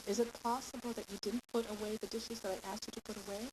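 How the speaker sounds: mild, tentative polite question. Shown as a demonstration. Parent asking about laundry and dishes, tentative. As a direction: ask as if unsure, lifting at the end. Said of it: "So we say".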